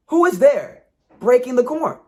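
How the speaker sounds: high, loud demanding call; a hidden spirit catching a thief; fairy voice. Acted. Hidden fairy challenges the wife picking corn, high and loud.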